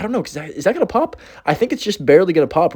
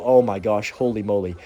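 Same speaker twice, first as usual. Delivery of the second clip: out of breath; 4 semitones lower, 3 dB quieter than usual. Real, not acted. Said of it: "I need to catch my breath".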